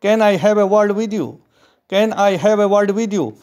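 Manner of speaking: very slow, careful model reading; slow model sentence. Shown as a demonstration. Teacher modelling the request slowly for students. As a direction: read it slowly for learners. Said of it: "इसे English में कहेंगे".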